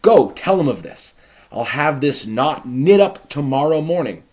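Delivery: loud, high, eager orders; delighted Capulet. Acted. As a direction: rush to get the wedding set. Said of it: "He goes".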